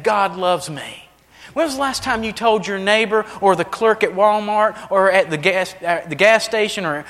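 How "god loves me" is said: "God loves me" drawn out slowly, each word weighed; slow and deliberate. Shown as a demonstration. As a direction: let the words land slowly. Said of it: "When's the last time you said that?".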